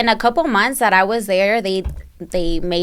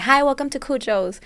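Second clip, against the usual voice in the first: higher-pitched shop greeter's welcome; imitated customer-service hello; practised customer greeting; 6 semitones higher, 3 dB quieter than usual. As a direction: recite a rehearsed welcome, pitched up. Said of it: "They would make you practice".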